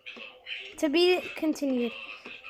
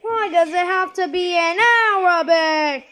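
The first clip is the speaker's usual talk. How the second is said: mock wail; 3 semitones higher, 6 dB louder than usual. Real, not acted. Frustrated outcry with crying sound.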